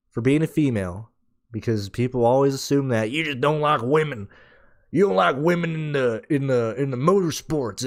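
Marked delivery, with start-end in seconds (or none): 4.9-7.8 a slight grumpy boomer voice; lightly done old-guy gripe. Retold or imitated. Podcaster mocking critics in a mild boomer voice. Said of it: "That's my boomer voice".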